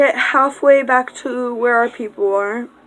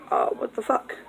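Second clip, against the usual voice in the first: stunned whisper; 2 semitones higher, 7 dB quieter than usual. Retold or imitated. Stunned, voiced under breath.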